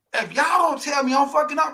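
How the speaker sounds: emphatic retold demand. Telling his friends to call him out.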